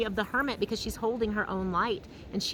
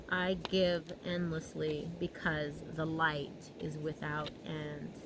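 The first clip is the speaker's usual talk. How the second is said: slow soft reading; 3 semitones lower, 4 dB quieter, slower than usual. Shown as a demonstration. Reads affirmation slowly.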